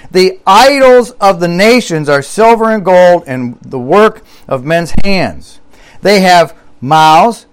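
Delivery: measured, lifted psalm reading, leaning on each line; scripture reading. Acted. Preacher reads the psalm to his congregation in a proclaiming voice. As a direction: read the psalm like a proclamation from the pulpit.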